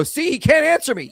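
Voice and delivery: high, mocking imitation of a smug debater; mocking opponent. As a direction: mimic the gloating opponent. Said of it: "And they go".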